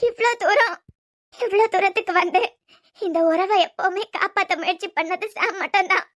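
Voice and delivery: tearful sobbing. Acted.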